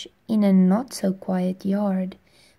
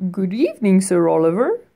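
louder, kindly bug voice; firefly greeting the boy at his window; friendly firefly; 5 dB louder, faster than usual. Acted. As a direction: greet him like a gentle old friend. Firefly character speaking.

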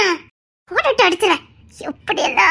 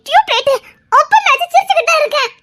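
higher, laughing through the words; laughing tease; 8 semitones higher than usual. Acted. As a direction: giggle while teasing him. Wife teasing husband, laughing.

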